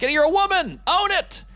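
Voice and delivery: high-pitched, exclaimed pep talk; exasperated urging. Acted. Comic urges insecure women to be confident, exasperated. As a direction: burst out in mock exasperation.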